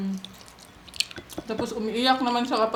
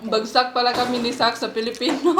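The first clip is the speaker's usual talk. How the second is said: laughing; 4 dB louder than usual. Real, not acted. Laughing at own Tagalog mistake.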